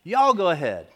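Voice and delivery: imitating a Southern mom's accent. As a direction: do a Southern mom addressing her family. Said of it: "a good Southern accent".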